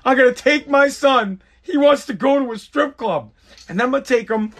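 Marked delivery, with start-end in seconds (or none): 0.0-3.3 higher, worked-up rush of joy; giddy, raised-pitch announcement; excited proud dad. Acted. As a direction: blurt it out like a thrilled dad. Acted excited reaction to son's wish.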